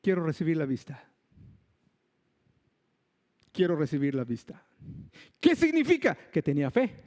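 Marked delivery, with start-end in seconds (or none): 0.0-4.7 a quieter, lower pleading voice, lightly voiced; a hint of humble Bartimeo, low and soft. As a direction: speak low and softer as the blind beggar asking. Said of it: "él dice".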